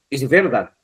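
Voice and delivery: VERDAD stressed early, on VER, falling away; wrong stress. Shown as a demonstration. Teacher showing students how nobody says it, wrong stress on VERDAD. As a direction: say VERDAD with the weight off the last syllable. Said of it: "Porque usted no va a decir".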